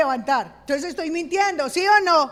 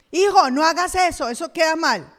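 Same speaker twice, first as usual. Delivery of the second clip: louder, higher parental scold; 4 semitones higher, 6 dB louder than usual. Retold or imitated. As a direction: correct the child firmly. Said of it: "cambio de roles".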